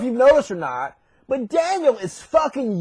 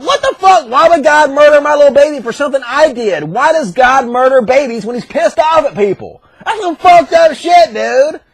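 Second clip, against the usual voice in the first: outraged protest; 2 semitones higher, 7 dB louder than usual. Acted. David objecting to God killing his baby, outraged. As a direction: protest in loud disbelief.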